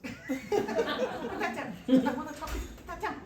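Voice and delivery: laughing through the words; half-laughing while telling armed men to stop. Retold or imitated. The narrator retells talking down armed men, laughing. Pushing a gun away, laughing.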